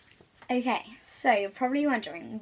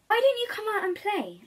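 wolf voice; 10 semitones higher, 3 dB louder than usual. Acted. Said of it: "asked the wolf eventually".

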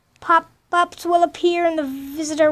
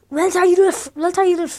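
put-on lightly done Austrian Schwarzenegger accent, a bit louder; reading game dialogue in a hint of Schwarzenegger's Austrian accent; Arnold Schwarzenegger accent; 3 dB louder, faster than usual. Voicing a game character's line, mild Schwarzenegger Austrian accent. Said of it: "go Arnold Schwarzenegger".

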